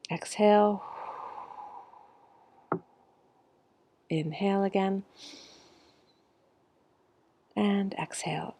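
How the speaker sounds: measured meditation-teacher cadence with long pauses; guided breathing. Real, not acted. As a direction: lead the group breath by breath, stretching the words. Leads a breathing exercise.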